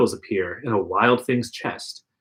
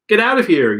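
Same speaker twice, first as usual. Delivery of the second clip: yelling; 7 semitones higher, 5 dB louder than usual. A narrator's reading. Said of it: "you yell".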